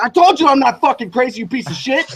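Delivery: high, heated "told you so"; retold outburst. Driver vindicated before his doubting friend, retold outburst. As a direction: crow it angrily, acting out the moment. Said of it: "he starts fucking screaming".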